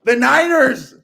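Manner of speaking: big comeback storytelling energy; excited build-up. Real, not acted. Excitedly retelling the Niners' comeback.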